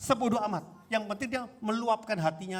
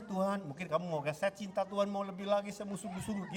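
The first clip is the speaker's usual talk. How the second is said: softly voiced prayer, trailing quieter; private sample prayer; 2 semitones higher, 6 dB quieter than usual. Shown as a demonstration. Believer shy to be heard prays in the bedroom, hushed private prayer. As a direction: pray under your voice, as if alone with God.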